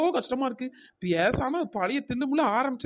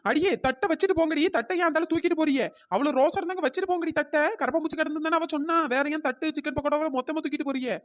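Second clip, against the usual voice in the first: indignant calling after; 4 semitones higher than usual. Acted. Owner calls after fleeing customers.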